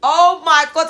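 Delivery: high, loud, long-drawn wow; amazed. Real, not acted. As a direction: let the voice soar in astonishment. Amazed at learning her ancestry.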